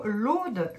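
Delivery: "l'Aude" with a long closed o; Lorrain-accented closed o in "l'Aude". Real, not acted. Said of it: "Oh, ouais, mon accent lorrain".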